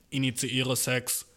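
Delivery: slow robotic monotone; slow robot announcing. Retold or imitated. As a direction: drone it like a machine. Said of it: "Zwei Roboter, die bang".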